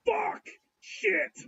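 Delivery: high-pitched squealed curses; mock panic. Retelling finding a kid in the bedroom, mock-panicked yelp. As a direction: yelp it in an exaggerated startled falsetto.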